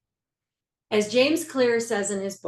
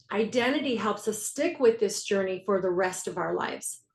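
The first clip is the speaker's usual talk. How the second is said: ordinary talk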